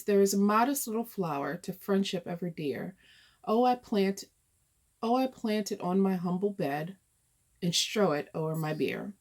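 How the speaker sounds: measured, gently lilting recitation; poem reading. Acted. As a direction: read the old verse aloud with even phrasing. Reads out the poem.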